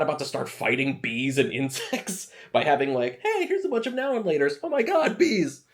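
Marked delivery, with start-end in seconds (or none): 3.2-5.6 mock panic. Mock panic at bees in quote.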